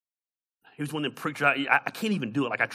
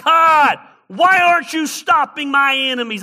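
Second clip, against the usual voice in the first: high, loud anguished cry to heaven; questioning God; 12 semitones higher, 14 dB louder than usual. Acted. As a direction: shout it as a desperate challenge to God. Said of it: "he was questioning God".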